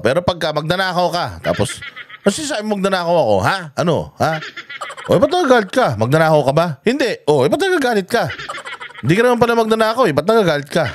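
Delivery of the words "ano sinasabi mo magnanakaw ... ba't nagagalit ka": acted back-and-forth, challenges pitched higher; mock indignant exchange. Vlogger acts out being called a thief, mock indignant. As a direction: play a heated hypothetical argument. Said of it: "Parang ganun sinasabi niya eh".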